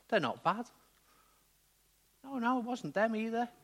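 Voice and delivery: indignant blind man, pitch jumping high; puzzled, then sticking up for the parents; blind beggar. Acted. Blind man overhearing talk of sin and parents, acted indignant. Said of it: "imagine being that blind man".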